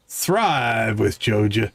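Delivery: slow, drawn-out corporate slogan read; mock ad slogan. Friend mocking the Joja brand with a slow ad-voice slogan. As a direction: sell it like a slow TV ad tagline.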